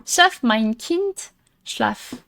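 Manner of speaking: slow, careful reading of foreign words; deliberate learner's German; reading German aloud. Real, not acted. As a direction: read the lullaby slowly, word by word. Reads a German lullaby note aloud.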